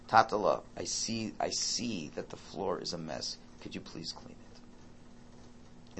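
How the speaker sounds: soft, patient, slowing to a near whisper; calm gentle tone. Retold or imitated. Father gently asking his son to clean the spilled wine, calm and soft. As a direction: calmly coax the child to clean up. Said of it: "In that, in that tone".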